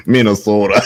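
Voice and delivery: mock Minnesota accent, long O. Joking about Midwest speech, mock Minnesota accent. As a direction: put a Minnesota accent on the word. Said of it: "never heard of a nigga say".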